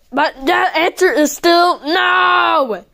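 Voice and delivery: slow, emphatic refusal; firm shouted no. Pretend. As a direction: stamp down the answer.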